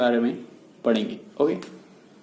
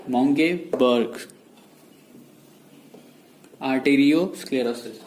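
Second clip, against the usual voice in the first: slow dictation; much slower than usual. Shown as a demonstration. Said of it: "writing the term on board".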